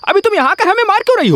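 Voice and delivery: quick, high, hurt complaint; fast indignant protest. Acted. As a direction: rattle it off, aggrieved. Drunk man protests wife beating him.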